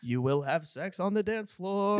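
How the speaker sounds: slow, eerie hypnotic intoning; ghostly voice. Pretend. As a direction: drone it like a ghost planting messages. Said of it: "Why do I sound like a ghost?".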